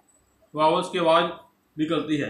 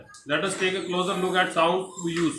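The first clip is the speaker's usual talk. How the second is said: slow reading; much slower than usual. Shown as a demonstration. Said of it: "reads textbook line aloud".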